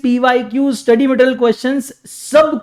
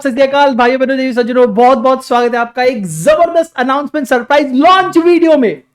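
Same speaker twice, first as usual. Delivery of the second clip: bright launch-video welcome, a touch louder; excited announcer greeting; 2 semitones higher, 3 dB louder than usual. Real, not acted. Teacher greeting students to launch his new book, excited. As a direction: hype up the big announcement. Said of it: "मैं इतना ज्यादा excited क्यों हूं".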